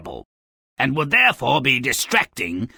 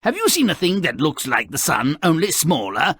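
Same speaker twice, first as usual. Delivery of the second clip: frog speak; 2 semitones higher, faster than usual. Retold or imitated. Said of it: "which in frog means".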